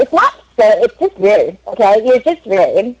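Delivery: lightly voiced offended American girl; American accent. Offended girl scolding the Australian joker, mock American accent. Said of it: "that was an amazing American accent".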